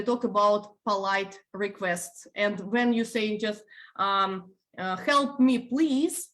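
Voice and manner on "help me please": "Help me, please" said higher and punchy, more order than request; teacher modelling a rude-sounding "Help me, please"; blunt demand. Shown as a demonstration. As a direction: bark it out a bit higher as a curt demand. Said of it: "please doesn't make it polite".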